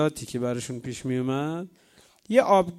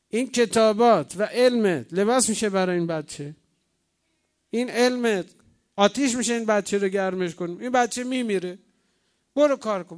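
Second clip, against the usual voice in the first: imitated nagging, pitched up; nagging midwife; 4 semitones higher than usual. Midwife pressing the penniless sheikh to help the newborn, nagging. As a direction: scold insistently as a fed-up midwife. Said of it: "اینقدر غر زد بهش".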